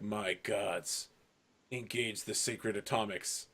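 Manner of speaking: mock-dramatic commander murmuring a grim order; grave command. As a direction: hush it like a solemn order.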